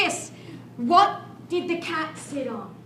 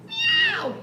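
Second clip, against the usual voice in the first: high mewing meow; cat meow. Acted. Leading children in the cat game, high playful meow.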